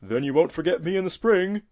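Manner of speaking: high, loud, hopeful tortoise voice; friendly old tortoise. A narrator's reading. Tortoise asking the robin to remember him, hopeful. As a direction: ask it eagerly as the old tortoise.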